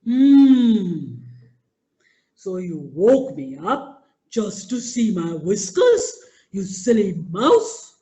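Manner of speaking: a big lion teasing a small fool; lion amused at the silly mouse; mocking lion.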